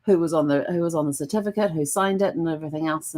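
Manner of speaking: high, bubbly little cheer; thrilled at finding the marriage record; excited find. Retold or imitated. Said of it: "I'm like".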